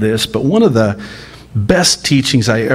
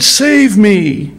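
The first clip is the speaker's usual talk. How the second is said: desperate cry; 10 semitones higher, 4 dB louder than usual. Acted. Preacher voicing Peter's panicked cry for rescue. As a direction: save me cried much higher and louder. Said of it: "he cried out".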